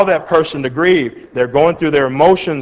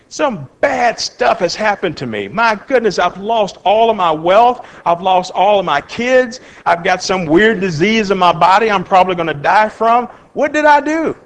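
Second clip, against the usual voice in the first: higher-pitched mock protest, jumping up at the end; bewildered lament; 3 semitones higher than usual. Job laments his losses to his friend, bewildered protest. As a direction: plead as a bewildered sufferer, acted lightly.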